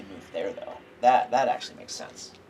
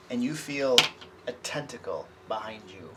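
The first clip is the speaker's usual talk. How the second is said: game master narration; 3 dB louder than usual. A narrator's reading. GM describes the attack.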